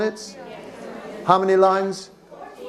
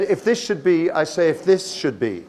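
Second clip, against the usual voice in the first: second "this" picked out with emphasis; stress on THIS. Shown as a demonstration. Teacher repeats student's line so class hears the stress on "this". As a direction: lean on "this", let "should be" fall.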